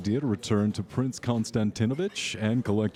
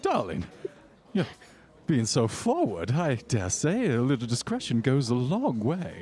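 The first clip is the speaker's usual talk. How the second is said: socialite voice; 3 semitones higher than usual. Acted.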